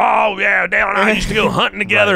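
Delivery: loud, high mock bragging; boastful name-droppers. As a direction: mimic big talkers claiming an old friendship. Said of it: "all these people that tell these stories".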